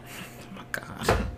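hushed unvoiced whisper. Real, not acted. Reacting to a mean joke in a hushed whisper. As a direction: breathe it out in shock. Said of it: "That was mean".

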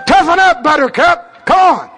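lightly hammed drill sergeant; barking gym coach. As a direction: bark it like a drill instructor. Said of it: "I'm your drill instructor".

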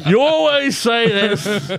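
loud, high, drawn-out wail through laughter; hammed-up lovers' quarrel outburst; mock exasperation. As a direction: complain loudly, half laughing. Acted quarrel of imagined couple.

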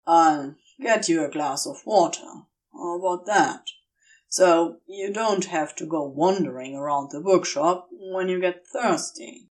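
a low, steady voice, practical and kind; Crowley's voice. Acted.

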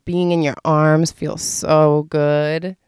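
slow, lightly sensual line. Shown as a demonstration. Showing simple pillow talk for a boo, slow and sensual. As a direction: linger on the words as sweet talk. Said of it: "trying to be sensual with your boo-boo".

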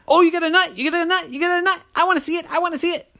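high, eager pestering squeak; high squeaky nagging; nosy squirrel voice. Acted. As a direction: beg to see it.

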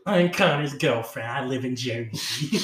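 slow, put-on girlfriend voice; mock Jersey girlfriend. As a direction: lightly caricature a Jersey girlfriend. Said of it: "She sounds nothing like that".

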